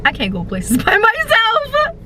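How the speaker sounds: hammed-up sobbing complaint; mock crying. Telling viewers her woes in mock tears. Comic breakdown over bad luck.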